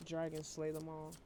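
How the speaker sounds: flat, tired monotone. Real, not acted. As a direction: speak in a dull monotone. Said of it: "Please excuse my monotone voice today".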